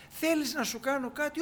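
a light touch of a generous prophet; voicing Elisha. Elisha offers the woman a favour, lightly kind.

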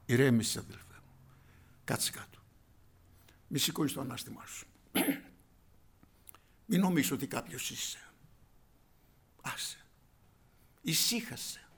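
calm him down gently; hushing. Acted. Preacher hushing a proud brother, mostly whispered.

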